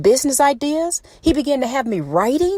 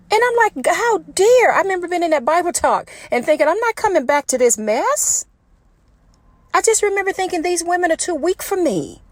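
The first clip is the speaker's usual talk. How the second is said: raised, high-pitched, impassioned outburst; passionate near-yell; 7 semitones higher than usual. Real, not acted. Preaching into her phone in the car, voice raised with passion. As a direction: pour it out with fired-up passion. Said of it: "I'm sorry if I'm yelling".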